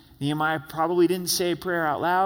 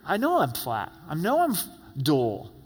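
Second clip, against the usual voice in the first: voicing a weary, discouraged believer. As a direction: let it sound worn out and flat. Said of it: "where you go, You know".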